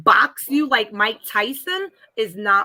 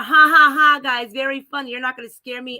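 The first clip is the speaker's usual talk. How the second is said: sarcastic fake laugh; 4 semitones higher, 3 dB louder than usual. Mocking kids' fake spider prank.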